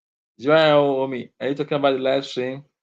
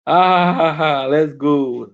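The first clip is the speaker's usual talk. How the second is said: laughing cheer; 5 dB louder, slower than usual. Real, not acted. Streamer cheering at chat, laughing loudly.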